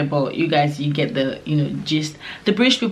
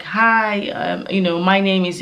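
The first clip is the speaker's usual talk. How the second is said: cheerful; 2 semitones higher, slower than usual. Shown as a demonstration. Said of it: "be that cheerful type".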